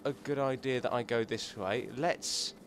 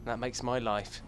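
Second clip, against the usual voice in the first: hushed whisper; 4 semitones lower, 9 dB quieter, slower than usual. Real, not acted. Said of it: "I don't know why I'm whispering".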